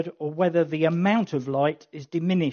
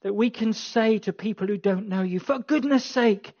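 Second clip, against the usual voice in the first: earnest, measured public prayer. Acted. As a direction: pray aloud for the congregation. Leads prayer.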